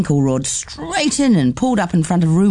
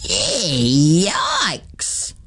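breathy whisper of shock; a child's hushed gasp of a word; whispered yikes. Acted. A child whispering at the strange aunt. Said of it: "said one of the children".

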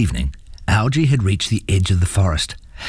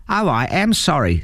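higher-pitched possum apology; sympathetic possum; 8 semitones higher than usual. A narrator's reading. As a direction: say sorry in a high possum voice. Possum pities the troll.

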